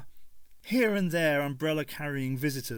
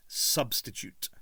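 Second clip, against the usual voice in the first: whispered Doctor; slower than usual. A narrator's reading. Doctor voiced.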